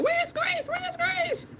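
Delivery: high sing-song calling of a name; mimicking their calls. Telling viewers how the group called for Grace, high and sing-song. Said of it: "they were like".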